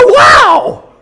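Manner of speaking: slow, loud, high amazed wow; stunned wow. Real, not acted. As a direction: stretch out the wow. Amazed reaction to the wife's idea.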